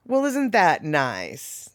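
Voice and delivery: slow, soft, sugary sarcasm; mild mock Southern belle; syrupy Southern put-down. Shown as a demonstration. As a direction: drawl it sweetly like a Southern lady insulting you. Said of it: "the way she said it".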